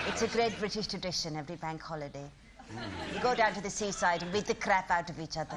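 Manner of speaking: lightly voiced elderly auntie, teasing; a hint of an old lady gossiping; old pensioner lady. Comedian playing elderly Asian pensioner.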